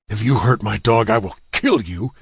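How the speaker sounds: dog owner warns attackers, trembling with rage. Acted. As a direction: threaten through rage and worry. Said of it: "trembling with rage and worry".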